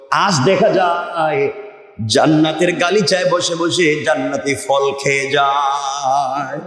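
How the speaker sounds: half-sung preacher's narration; sermon storytelling. Acted. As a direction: intone the story, stretching phrase endings. Preacher narrates a holy tale.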